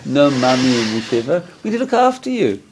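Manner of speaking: high, syrupy evil inner voice; Yetzer Hara voice. Acted. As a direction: sweet-talk him into staying in bed. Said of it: "That's exactly what my Yetzer Hara sounds like".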